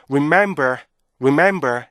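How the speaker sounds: "remember" quick and squashed, weak R; rhythmless REMEMBER. Shown as a demonstration. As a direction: mimic a learner's hurried "remember". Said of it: "이렇게 발음하면은 자연스럽고".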